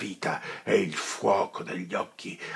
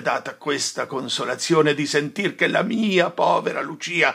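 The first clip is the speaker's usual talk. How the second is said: louder, wounded lament; bitter sorrowful dismissal; grieving reproach; 3 semitones higher, 8 dB louder than usual. Acted. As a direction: reproach him through grief. Friar's grief and reproach.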